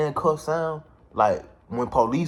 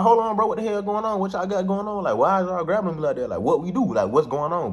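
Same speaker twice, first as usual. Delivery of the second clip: playing dumb; 7 semitones higher than usual. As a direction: act like you have no idea what's happening. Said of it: "I'm just trying to be stupid".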